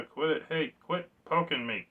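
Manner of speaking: exasperated poked game character. Pretend. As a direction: play the figure telling him off. Voicing the poked figure.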